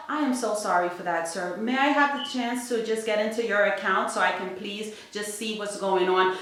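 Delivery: soft, quick, apologetic teller voice; sweetly calm the caller down; nice phone voice. Retold or imitated. Teller apologising to an angry caller, soft and sweet. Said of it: "I have a nice phone voice".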